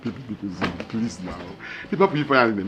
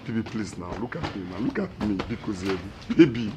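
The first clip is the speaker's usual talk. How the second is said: softer and lower begging, down to near-whispers; fading plea; 4 semitones lower, 5 dB quieter than usual. Acted. Husband begging his wife, fading into whispered apologies. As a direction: plead until the voice almost disappears.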